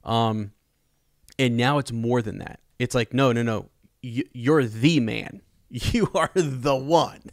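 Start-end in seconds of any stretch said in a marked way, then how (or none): 3.1-7.2 slow, emphatic, half-laughing pronouncement; awed mentor declaring. Retold or imitated. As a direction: proclaim him the chosen one, drawn out with a laugh. Rand being told he's the one.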